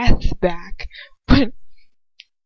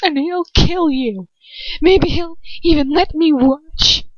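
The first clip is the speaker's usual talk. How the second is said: defiant taunt; 7 semitones higher than usual. Acted. Captive defies attacker.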